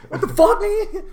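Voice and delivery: high mock DC accent. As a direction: DC accent, angry quote. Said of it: "The accent start coming out".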